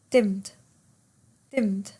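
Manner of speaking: "Dimmed" as a single falling syllable, dimd; satu suku kata. Shown as a demonstration. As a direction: say "Dimmed" in one beat, the E barely there. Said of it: "say it out loud to yourself".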